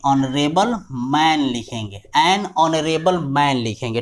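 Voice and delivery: "honorable" drawn out, H silent; slow dictation. Shown as a demonstration. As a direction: repeat it slowly for copying.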